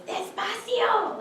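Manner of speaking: loud, high, drawn-out yell of Despacio; stretched mother's shout; mothers yelling. Retold or imitated. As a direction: call it out across the park like a mother. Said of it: "mothers yelling at their kids".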